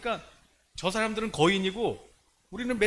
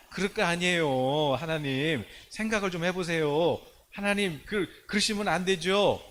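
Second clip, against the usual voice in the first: pleading. Acted. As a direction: beg him lightly to reconsider, stretching the endings. Moses pleading with God.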